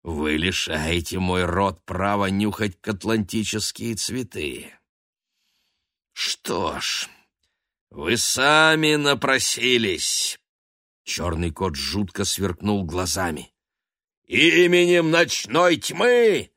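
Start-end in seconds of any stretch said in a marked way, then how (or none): 0.0-10.4 menacing threat. Acted. Black cat Tony threatening the Council, mock villain menace. 14.3-16.5 slow, high, loud incantation; shouted. Acted. Black cat casting his curse on the crowd, loud slow shout. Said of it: "крикнул он".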